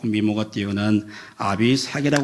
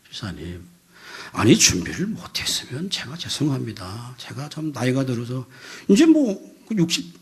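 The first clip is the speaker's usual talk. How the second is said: measured, deferential apology; mild, reasonable pleading; model humble apology. Shown as a demonstration. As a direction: show how one should politely own up and ask for a chance. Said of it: "이러면 되잖아요".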